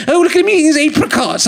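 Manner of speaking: high-pitched jeering onlooker; mock scorn. Imagined onlookers mocking his death.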